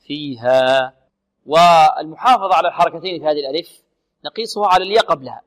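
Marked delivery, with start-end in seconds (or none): 0.1-0.9 slow فيها fading on open "aa"; فيها, pure long alif ending; correct open ending. Shown as a demonstration. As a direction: release the end of فيها with no glottal catch. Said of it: "لا ننهي الألف بهمزة".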